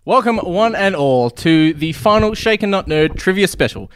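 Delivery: slow, grand show-host welcome; announcer intro. Acted. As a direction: open the show like a game host. Host opens show formally.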